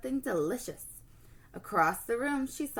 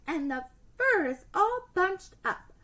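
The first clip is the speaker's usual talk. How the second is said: huffing; 9 semitones higher, 4 dB louder than usual. Acted. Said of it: "she huffed".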